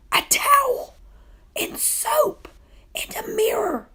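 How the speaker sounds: high excited whispered squeal. A narrator's reading. Boy squealing over finds in the closet. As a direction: squeak each find with delight. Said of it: "squealed Gary".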